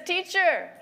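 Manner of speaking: high, loud, gushing disciple; exaggerated high-pitched admiration; mood-lifting enthusiasm. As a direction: play an awestruck tourist, hammed up. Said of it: "wanting to bring up the mood".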